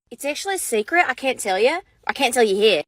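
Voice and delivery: coy put-on Australian voice; mock Australian, confiding; fake Australian accent. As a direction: play a secretive Aussie. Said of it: "with our stupid Australian accent".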